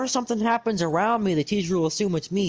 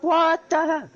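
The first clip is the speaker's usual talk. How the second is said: shocked outburst; 9 semitones higher, slower than usual. Retold or imitated. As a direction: blurt it out in shock. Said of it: "I'm like".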